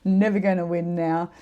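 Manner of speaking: high, loud outraged disbelief, fading; indignant outburst. Retold or imitated. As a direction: burst out in disbelief, then sulk. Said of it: "And Mel was dirty".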